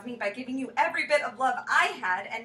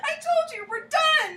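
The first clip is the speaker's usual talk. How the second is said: half laughing, half crying; 13 semitones higher, 5 dB louder, slower than usual. Acted.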